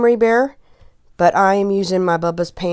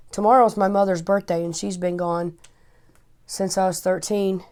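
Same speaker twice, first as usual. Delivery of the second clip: emotional. Real, not acted. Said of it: "If I get emotional".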